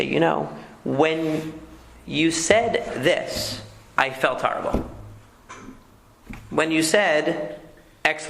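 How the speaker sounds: slow, gentle describing; calm I-statement. Shown as a demonstration. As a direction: explain your hurt calmly and slowly. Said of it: "However, if you say".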